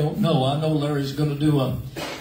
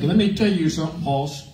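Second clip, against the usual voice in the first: mock tough demand. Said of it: "got in his face and she said".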